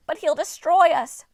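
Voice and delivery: high, loud, slow panicked wail. A narrator's reading. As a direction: shriek in terror. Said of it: "Pessilos wailed".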